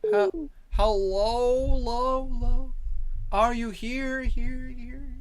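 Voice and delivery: high, drawn-out call with repeats fading away; mock echo call. Calling to see who is here, mock echo. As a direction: fake your own echo, stretching the vowels.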